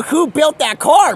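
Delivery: loud, high, drawn-out question; shouted demand. Acted. Demanding an answer from Mike, shouted question. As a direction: call it out slowly at high pitch.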